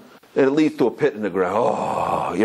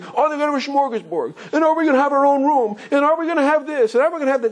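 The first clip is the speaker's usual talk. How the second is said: put-on high, eager kids' questions; excited kids; 11 semitones higher than usual. Kids pestering Abba about the trip, high and eager. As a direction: pile on the questions like eager children.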